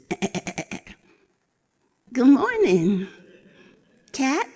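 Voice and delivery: lightly voiced old goat, sly and friendly. Old goat greeting the young wildcat, creaky and sly.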